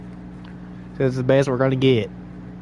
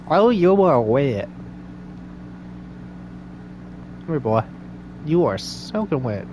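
put-on Southern accent, greeting a dog; Southern accent character; 5 dB quieter than usual. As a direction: talk to your dog in a Southern drawl. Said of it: "my southern and Australian are the same".

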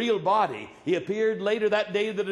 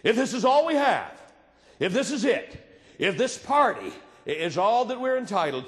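louder emphatic preaching; 5 semitones higher, 3 dB louder than usual. Real, not acted.

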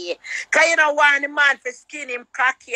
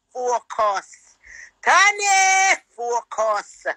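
preaching. Acted. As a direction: preach it out at full force, Tanny, focus. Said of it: "me have to preach it out sometime".

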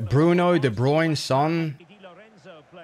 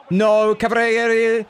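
high, loud, drawn-out disbelief; dismayed groan; 8 semitones higher, 5 dB louder than usual. Real, not acted. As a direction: stretch it out in dismay. Keeper saves his chance.

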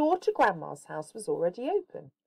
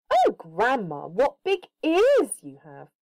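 put-on playful little girl; 4 semitones higher, 5 dB louder than usual. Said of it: "she said".

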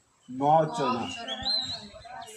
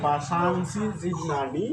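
slow recitation; 2 semitones lower, 6 dB quieter, much slower than usual. Shown as a demonstration. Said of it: "জীর্ণানি ঠিক থাকবে".

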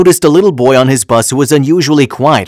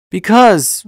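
put-on high child voice, mildly upset; a touch of tears in a small boy's voice; tearful little boy; 7 semitones higher than usual. A narrator's reading. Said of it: "tears streaming down his cheeks".

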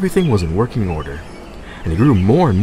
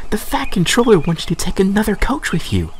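higher, matter-of-fact message; Percy voiced; 11 semitones higher than usual. A narrator's reading. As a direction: pass on the boss's order. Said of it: "said Percy".

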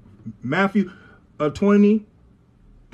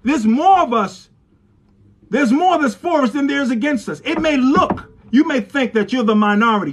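emphatic, driving pulpit exhortation; forceful preaching; 3 semitones higher than usual. Acted. Preacher urging the church not to be afraid, forceful preaching. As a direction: preach it with insistent conviction.

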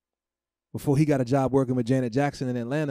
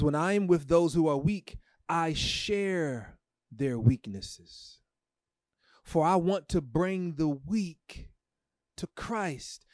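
reverent reading; 3 semitones higher, much slower than usual. Acted. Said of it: "The Bible says".

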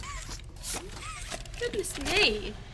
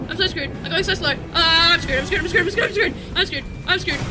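loud panicked chant while fleeing; being chased; 2 semitones higher, 4 dB louder than usual. Real, not acted. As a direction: babble in panic while running.

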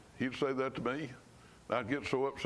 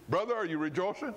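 higher, quick cheery greeting; imitating friendly brother; 4 semitones higher, faster than usual. Retelling how a church brother greeted him, cheery imitation. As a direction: mimic the old brother's cheerful nudge. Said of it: "That's what he'd say".

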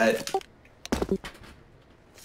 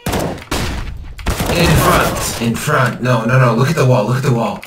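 urgent callouts; 5 dB louder, slower than usual. Real, not acted. Calling out in game.

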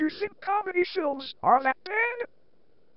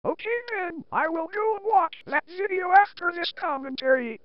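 computerized voice. Shown as a demonstration. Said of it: "using this computerized voice".

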